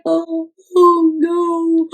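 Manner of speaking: slow, drawn-out mild worried oh no; a hint of panicky penguins; penguins' worry. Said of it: "They're like".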